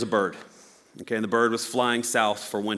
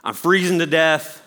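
a bird panicking in the snow, a bit louder; mock distress, a touch louder and higher; 3 semitones higher, 4 dB louder than usual. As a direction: play the freezing little bird in mild panic. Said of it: "the bird's on the ground like".

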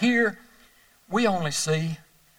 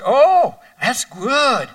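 high, bright-eyed reply in the lady's voice; light, higher pitched gushing friend; chirpy second lady; 7 semitones higher, 6 dB louder, much slower than usual. Acted. Second lady at the reunion answers her friend, high and chipper.

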